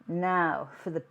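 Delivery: slow, mock French accent on pièce de la résistance. Cook presenting her dessert in a self-mocking French accent. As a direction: savour the phrase in a put-on French accent. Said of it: "My French accent was never any good".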